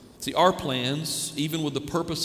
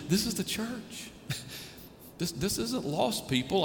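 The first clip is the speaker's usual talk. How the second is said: exasperated disbelief; 9 semitones higher, 4 dB quieter than usual. Real, not acted. Pastor exasperated by uncommitted members.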